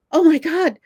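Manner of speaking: high, loud, gushing and stammering; flustered fangirl lost for words; starstruck schoolgirl. Retold or imitated. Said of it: "I was like a schoolgirl".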